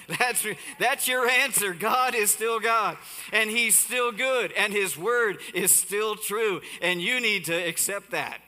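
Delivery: loud fervent pulpit proclamation; preaching at full force. Acted. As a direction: preach it out, every line landing hard. Preaching the point home.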